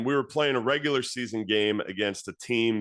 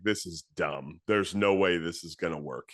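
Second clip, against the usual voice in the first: mocking inner voice; 5 semitones lower than usual. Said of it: "this voice on my shoulder laughing".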